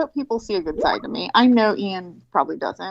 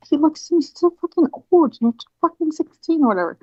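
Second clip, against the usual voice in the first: put-on loud, higher scornful voice of teenage friends; mocking friends; 8 semitones higher, 5 dB louder than usual. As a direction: scoff at her like a disgusted teenager. Friends mocking her teenage crush.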